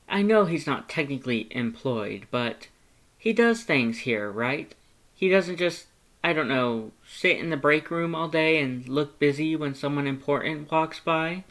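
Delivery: fearing his brother slacks off; concerned Papyrus. Acted. Papyrus concerned about Sans.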